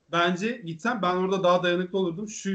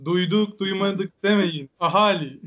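town crier; 4 dB louder, slower than usual. Pretend. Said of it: "her cuma meydanda halka okur".

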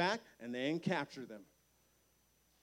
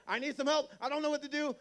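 helpless king; 10 semitones higher, 4 dB louder, faster than usual. Retold or imitated. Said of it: "he's like".

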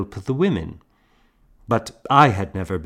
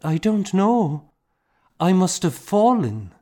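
put-on child voice; 11 semitones higher, 4 dB louder than usual. A narrator's reading. Child answers her relieved mother.

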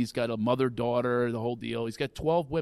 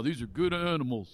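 his father's voice; 3 dB quieter than usual. Retold or imitated. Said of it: "I sound like him now".

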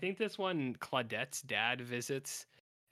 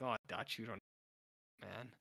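laughing plea; 4 dB quieter than usual. Real, not acted. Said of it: "And I'm like".

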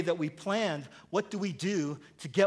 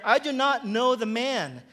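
louder, higher, emphatic scripture reading; cursing, sworn denial; 6 semitones higher, 5 dB louder than usual. A narrator's reading. Peter swears to bystanders he doesn't know Jesus, raised-voice denial. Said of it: "invoke a curse on himself and to swear".

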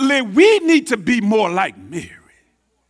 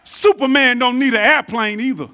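louder, pointed snap back at a cocky passenger; angry comeback; 3 dB louder than usual. Retold or imitated. Flight attendant snaps back at Ali, louder and sharp. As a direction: put him in his place, firmly. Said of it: "She's angry now".

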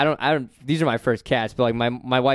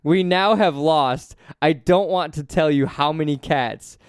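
reading a quote aloud. Retold or imitated. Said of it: "this is in quotes".

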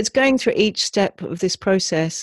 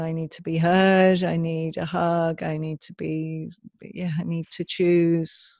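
put-on inner child's needs; 3 dB quieter, slower than usual. Shown as a demonstration. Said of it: "So often it might be".

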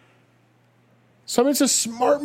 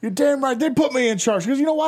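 high-pitched blustering boss voice; puffed-up screechy big shot; pompous shrill tyrant; 10 semitones higher than usual. Pretend. Boastful boss character bit.

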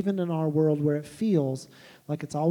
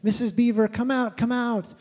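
calling out; 5 semitones higher than usual. Acted. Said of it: "he calls out to the children".

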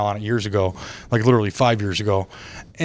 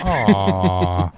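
crowd aw; 5 semitones lower than usual. Retold or imitated. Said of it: "more of a deep sigh than a".

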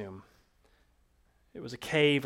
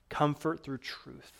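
softer repeat; 8 dB quieter, slower than usual. Shown as a demonstration.

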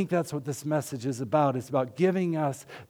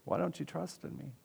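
mock scolding; 4 semitones higher, 6 dB quieter than usual. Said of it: "scolds Peter a little bit".

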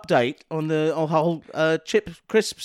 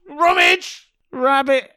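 Ramage Rabbit voice; 7 semitones higher, much slower than usual. Pretend. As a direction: shout it like a bouncy cartoon bunny. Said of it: "I'll thump me paws together".

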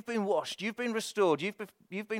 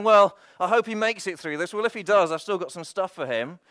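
doubtful hoping; 7 dB louder than usual. Retold or imitated. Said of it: "He's not praying".

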